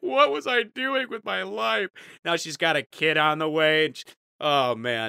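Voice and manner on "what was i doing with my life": high, weepy, sobbing, crying voice. Retelling an ex-girlfriend's words at the dumpster, imitating her sobbing. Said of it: "She's just sobbing like".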